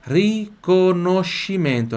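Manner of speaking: riconoscimento drawn out slowly, syllable by syllable; ri-co-no-sci-men-to, each syllable slow and clear; slow pronunciation demo. Shown as a demonstration. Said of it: "atenção pro som do L aqui".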